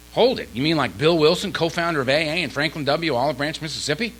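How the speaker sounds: mock astonishment, ending as a question; retold disbelief. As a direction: act out stopping someone to double-check. Acted disbelief at famous names.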